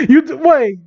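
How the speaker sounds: high-pitched incredulous stammer; baffled disbelief. Real, not acted. Reader puzzles over a misspelling, incredulous.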